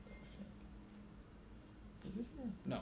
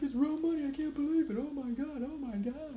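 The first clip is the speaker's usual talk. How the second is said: much higher, louder, amazed; mock excited character; 9 semitones higher, 3 dB louder than usual. Mimicking a film character amazed by real money, high and excited. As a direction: gush like he can't believe it. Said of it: "he's like".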